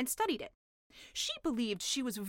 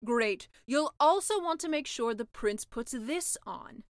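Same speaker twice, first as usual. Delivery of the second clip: slow, louder tempting pitch; selling sea witch; 5 dB louder, slower than usual. Acted. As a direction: sell the perks slowly. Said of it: "said the sea witch".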